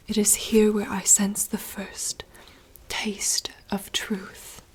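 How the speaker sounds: slow, hushed theatrical reading; whispered dramatic monologue. Acted. Reading a princess's forest monologue aloud in rehearsal, hushed theatrical whisper. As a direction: whisper the lines like a stage soliloquy.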